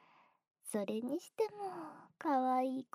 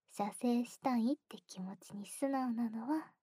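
whisper. Acted. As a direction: whisper it warmly.

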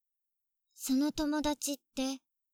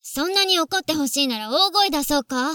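loud, furious threat; angry outburst; 7 dB louder than usual. Acted. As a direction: let the jealousy explode into a shout. Jealous sister snaps on phone.

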